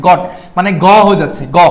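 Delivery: "গট" with a hard g, not j. Shown as a demonstration. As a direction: stress the hard "গ" sound opening "গট". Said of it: "আমার প্রনাউন্সটা hard হচ্ছে".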